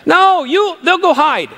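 ordinary delivery

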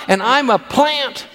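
put-on high, slow, proud kid voice; child telling parents about the school play, proud and high; proud little child. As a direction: announce it like a small child thrilled with a tiny part.

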